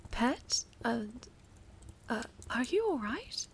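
flustered, alarmed. Acted. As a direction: scramble to comfort them. Patron sees pet crying.

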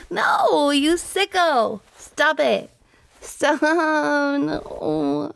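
high, playful protest with laughter breaking in; ticklish protest. Acted. Girlfriend fights off tickling partner, playfully outraged. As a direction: squirm out of it, half laughing.

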